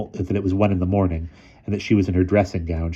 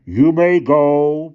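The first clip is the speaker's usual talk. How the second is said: slow, loud and higher bark; 9 semitones higher, 9 dB louder, much slower than usual. A narrator's reading. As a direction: snap the order out. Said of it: "barked Mister Sturgeon".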